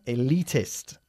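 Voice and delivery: "Elitist" stressed on the LI; stress on second syllable. Shown as a demonstration. Teacher shows student how to pronounce it, stress on second syllable of "Elitist". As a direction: say "Elitist" with the weight on its middle syllable. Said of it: "Enfatizando la segunda sílaba".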